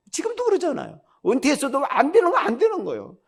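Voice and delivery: amused self-mocking chuckle; laughing. Real, not acted. Laughing at himself.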